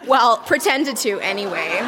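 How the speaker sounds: laughing. Real, not acted. Reader laughs at diary.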